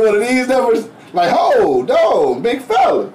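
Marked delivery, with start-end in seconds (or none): 1.4-3.1 called-out objection rising high, laughter creeping in; mock startled protest. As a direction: act out being taken aback. Re-enacts startled objection to rubbing.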